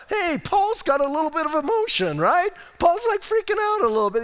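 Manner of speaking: high, loud, fired-up preaching; nearly shouting with enthusiasm; excited. Real, not acted. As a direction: let the excitement burst out, pitch way up. Excited preacher riffing on Paul.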